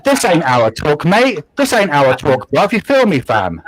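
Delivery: hammed-up London street talk; London accent. Shown as a demonstration. Friend demonstrating London talk after claiming no regional accent, playful London accent. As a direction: put on London slang and accent. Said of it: "could probably do a London accent".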